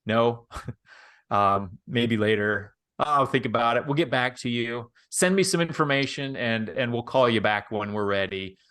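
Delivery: usual speaking voice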